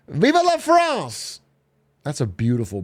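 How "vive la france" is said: french chef. Pretend. Cheering France's bridge.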